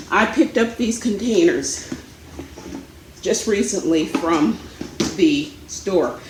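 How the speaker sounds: winded from running around; short of breath, puffing between words. Real, not acted. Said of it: "Can you tell I'm out of breath?".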